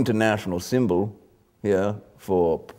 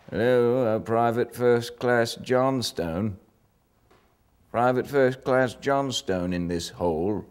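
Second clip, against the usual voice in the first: calling out at trench holes; 4 semitones higher than usual. Retold or imitated. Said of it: "either somebody'd go".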